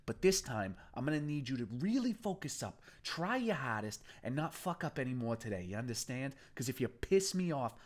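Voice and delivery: menacing gang boss. Acted. Boston threatening the bound captive, menacing. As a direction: belittle him, then threaten.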